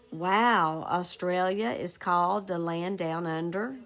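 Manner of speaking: amazed exclamation. Shown as a demonstration. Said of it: "got to show strong feeling".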